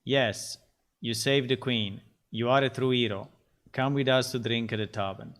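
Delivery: monotone text-to-speech voice, every word the same; flat robotic reading. Retold or imitated. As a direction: read it like a newspaper, no emotion. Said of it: "the text-to-speech will be like".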